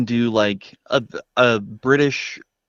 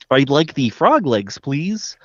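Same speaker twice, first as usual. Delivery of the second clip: lightly imitating the frog asking politely; Kermit the Frog; 3 semitones higher, slower than usual. Co-host jokes by quoting Kermit ordering food, light impression. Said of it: "My favorite thing to say is Kermit is like".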